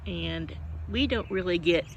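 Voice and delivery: talking through a yawn; words stretched by a yawn. Real, not acted. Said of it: "excuse me, yawning again".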